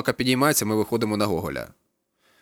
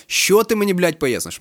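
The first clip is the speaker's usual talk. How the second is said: high and loud reprimand; angry captain; 8 semitones higher, 4 dB louder, slower than usual. A narrator's reading. Captain reprimands the student before the patrol, angry. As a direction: bark at the caught student.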